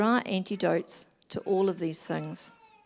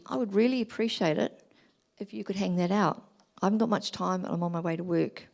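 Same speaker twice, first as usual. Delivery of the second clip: polite, gentle request; appreciative. Shown as a demonstration. Wife to husband about wet washing, gently appreciative. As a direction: ask kindly, leaning on really. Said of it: "Whereas if I said".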